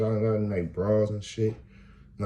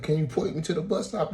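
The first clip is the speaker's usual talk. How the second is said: meek question; 10 semitones higher than usual. Retold or imitated. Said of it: "I'm like".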